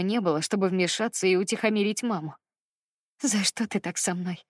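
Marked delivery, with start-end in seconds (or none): 3.2-4.4 trembling voice. Acted. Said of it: "спросила я дрожащим голосом".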